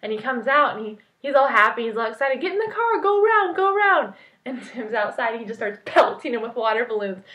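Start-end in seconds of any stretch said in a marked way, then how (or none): 2.4-4.1 high, pushing commands in a rush; urgent orders. Retold or imitated. Ordering friends around the car mid-prank, high and urgent. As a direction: hurry everyone into position.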